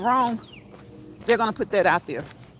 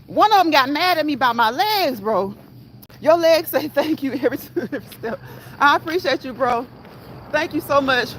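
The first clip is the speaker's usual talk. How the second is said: excited, higher and louder; 4 semitones higher, 4 dB louder than usual. Real, not acted. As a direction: gush with delight. Excited thanks to a viewer.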